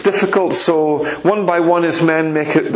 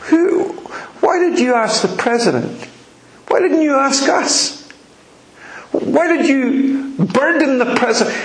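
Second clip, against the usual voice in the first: higher, indignant mock outrage; a hammed-up indignant protest, much higher; furious retainers; 6 semitones higher than usual. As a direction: scold the stranger as the angry men. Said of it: "Jefferson's men were furious".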